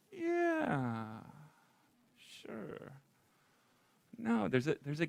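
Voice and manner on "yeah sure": dismissive yeah sure. Retold or imitated. People casually claiming it's true, airy brush-off. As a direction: toss off an easy, careless agreement. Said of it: "And they say".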